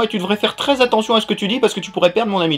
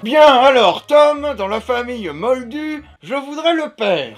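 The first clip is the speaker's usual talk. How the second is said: put-on doddering old headmaster; 3 semitones higher, slower than usual. Confused old man asks for a family card, solemnly slow. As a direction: announce it grandly, dragging the words.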